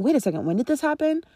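curious prompting questions. Shown as a demonstration. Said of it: "So saying".

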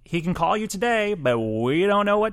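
breezy vague promise; mock publicist. Host voicing the publicist on the call timing, high and slow. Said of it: "they're like".

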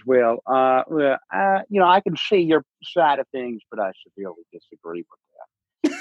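polite disagreeing dad with a Delaware County lilt; dad character. Pretend. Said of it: "Uh, he says".

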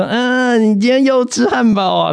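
high, prying mock doorman; nosy doorman. Mimicking the building manager asking about his takeout, high and prying. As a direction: pitch it up and pry into his lunch. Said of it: "他就说".

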